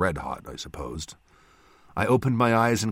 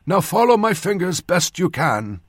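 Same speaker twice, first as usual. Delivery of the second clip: loud, raised doctor's voice; instructing old surgeon; 10 semitones higher, 5 dB louder than usual. A narrator's reading. Surgeon testing a patient's eyes, loud and instructing. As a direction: direct a dazed patient loudly.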